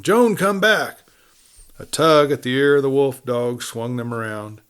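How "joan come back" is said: high, louder, slow frightened call; terror-stricken cry. A narrator's reading. Kate calling her daughter off the wolf dog, terrified. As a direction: call the child back in terror. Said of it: "Kate cried terror-stricken".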